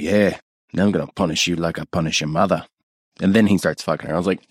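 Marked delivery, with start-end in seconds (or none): 0.0-2.6 lightly attempted Australian stepfather voice. Stepfather threatening his stepdaughter, attempted Australian. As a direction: threaten in a half-hearted Australian accent. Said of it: "I'm trying to do Australian".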